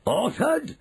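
ALTERED shot up very high as a question; incredulous ALTERED, pitch leaping upward; shouted echo. A narrator's reading. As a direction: echo ALTERED back in rising outrage. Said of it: "shouted Mister Jenkins".

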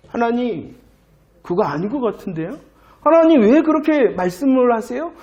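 mild mock objection; talking back. Israelites answer back to God, mildly protesting. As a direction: imitate people questioning God with a touch of protest. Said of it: "대꾸하며 항변하였다".

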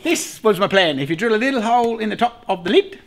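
ordinary talk, nothing marked

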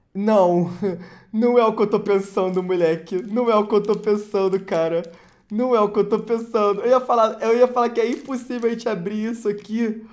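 fast, loud, laughing disbelief; excited disbelief. Real, not acted. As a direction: rattle it off in disbelief. Can't believe the pull.

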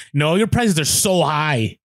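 slow, drawn-out mock whine about prices; imitating a whiny complaint. Customer griping to the cashier at the estate sale, mock whiny drawl. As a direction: drag it out like a sulky customer. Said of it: "that's how she said it".

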